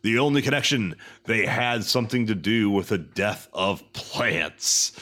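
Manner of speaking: dramatic announcer narration, rising and dropping in pitch; synopsis read. Acted. Host recapping the episode's plot, dramatic announcer. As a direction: read the plot like a hammed-up trailer.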